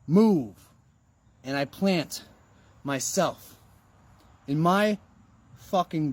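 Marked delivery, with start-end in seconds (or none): 0.1-0.7 a loud devil's "Move"; devil's command. Pretend. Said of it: "the devil comes and it says".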